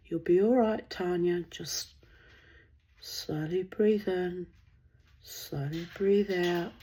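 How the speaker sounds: slow, gentle talking-down; like the trees themselves soothing her; soothing calm voice. Retold or imitated. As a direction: ease a panicking friend into breathing slowly. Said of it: "the trees talked me down".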